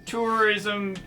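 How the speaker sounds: put-on grumpy old man grumbling; old man mumbling. Zach voiced grumbling about the trip.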